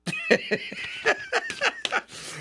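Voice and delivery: real helpless giggle, very high; laughing at the president's quote; high burst of laughter. Real, not acted. Host cracks up at clip.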